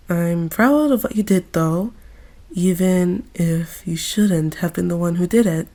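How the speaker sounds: gentle comfort. Acted. Agatha gently comforting Riza.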